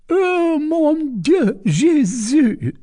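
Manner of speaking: put-on an old lady throwing up her hands; old mother's exclamation. A narrator's reading. Mother exclaiming over the crowd, high and loud.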